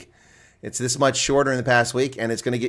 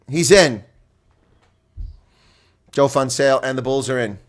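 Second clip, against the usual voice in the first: louder driving commentary on the maul; play-by-play; 4 dB louder than usual. Acted. Streamer calls the Bulls maul, energetic play-by-play. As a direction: push the call with the maul.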